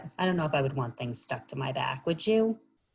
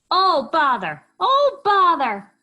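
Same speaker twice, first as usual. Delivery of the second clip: very high, louder fretful squeak; upset Hedgehog; 13 semitones higher, 9 dB louder, slower than usual. Acted. Hedgehog seeing paper sail toward her, high fretful squeak. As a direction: cry it out in fussy dismay.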